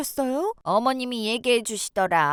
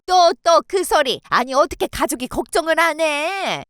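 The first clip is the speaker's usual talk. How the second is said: exasperated; 2 semitones higher, 5 dB louder than usual. Acted. Exasperated sister-in-law scolds.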